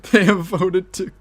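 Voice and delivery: loud, slow announcer voice; game announcer. Pretend. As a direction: announce the vote result.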